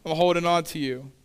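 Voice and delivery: half-joking, refuse to let go; clinging Mary. Acted. Mary clinging to the risen Jesus, playfully insistent.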